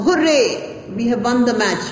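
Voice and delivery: excited cheer. Shown as a demonstration. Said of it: "You show surprise".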